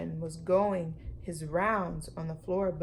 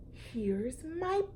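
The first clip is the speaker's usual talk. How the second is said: cried out; 8 semitones higher, much slower than usual. Acted. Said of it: "he cried".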